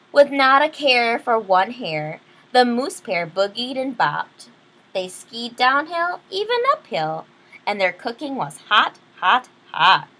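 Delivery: lively read-aloud storyteller; story narration. Acted. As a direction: read it like a bedtime picture book. Reads picture book aloud.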